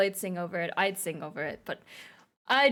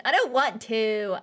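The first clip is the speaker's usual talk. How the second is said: reluctant whine; 3 dB louder than usual. Pretend. Whining at the next goal.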